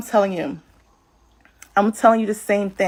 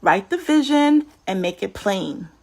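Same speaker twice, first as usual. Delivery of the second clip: calm God voice; 3 semitones lower than usual. Acted. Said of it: "God is like".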